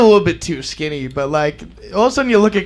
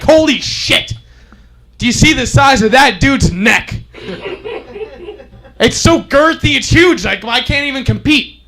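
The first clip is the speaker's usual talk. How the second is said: mock awe; 3 semitones higher than usual. Acts awe at rival's neck.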